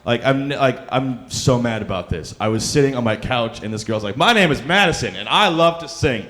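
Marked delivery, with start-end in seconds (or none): 4.2-6.3 put-on higher, sweet little-girl voice; mimicking little girl. Mocking the six-year-old contestant Madison, sweet and high.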